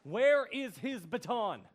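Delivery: slow question through a laugh. Acted. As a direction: laugh as you ask.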